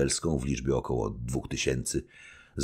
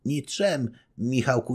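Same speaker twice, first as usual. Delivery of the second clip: higher, doting wifely voice; fond young wife; 9 semitones higher than usual. Acted. Young wife telling her husband she never worries, doting. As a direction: reassure him, proud of him.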